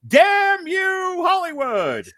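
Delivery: high-pitched show title cry; high shouted title. Pretend. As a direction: shriek the show name.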